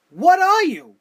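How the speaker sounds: demanding an answer at full volume; exasperated shout. Real, not acted. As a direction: yell it at him in disbelief. Repeated rhetorical challenge to Dolph.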